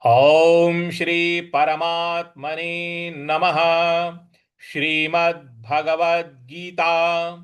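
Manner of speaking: slow reverent chant of the invocation and verse; Sanskrit shloka recitation. Shown as a demonstration. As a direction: intone like a Gita path. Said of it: "इस प्रकार से इसका पूरा उच्चारण". (गीता पाठ की तरह धीरे)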